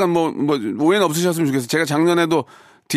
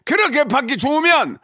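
much higher mock-angry pitch; raised-tone scolding; 10 semitones higher than usual. Shown as a demonstration. Host corrects caller's tone, high-pitched scolding. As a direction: lift the whole phrase high to scold. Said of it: "톤을 올려야지".

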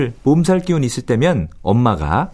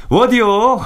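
demanding father; 6 semitones higher, slower than usual. Retold or imitated. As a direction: call out like a hungry grumpy dad. Father demanding food imitated.

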